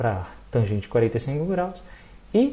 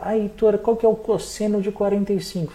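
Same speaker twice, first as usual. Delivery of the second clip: higher, questioning student voice; student asking; 6 semitones higher than usual. Retold or imitated. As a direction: ask like a puzzled student. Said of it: "toda vez que ele fala".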